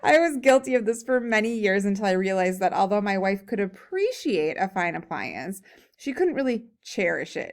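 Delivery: lively, emphatic story reading; humorous read-aloud. A narrator's reading. Reading a comic essay to a class, animated read-aloud. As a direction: read it aloud with punchy key words.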